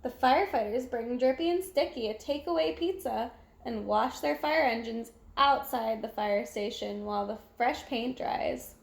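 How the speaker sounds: plain reading voice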